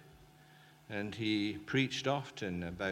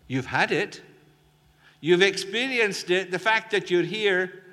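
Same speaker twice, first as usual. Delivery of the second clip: fervent assurance; 7 semitones higher, 11 dB louder than usual. Acted. Preacher assuring the congregation.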